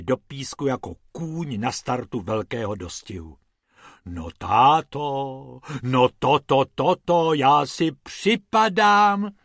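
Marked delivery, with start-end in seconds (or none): 4.1-9.3 slow, loud astonished wife; amazed exclamation. Acted. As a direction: marvel out loud, drawn out. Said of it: "zvolala paní Pumpernaglová".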